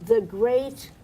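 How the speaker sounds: dripping with mock praise; sarcastic. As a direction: say it with a sneer, mock-admiring. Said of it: "and I say this sarcastically".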